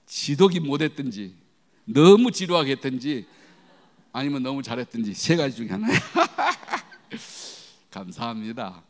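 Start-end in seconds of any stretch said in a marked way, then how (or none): 6.0-7.6 high, airy burst of laughter; real high-pitched chuckling laugh; hearty laugh. Real, not acted. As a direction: laugh out at your own joke. Laughs after his own joke.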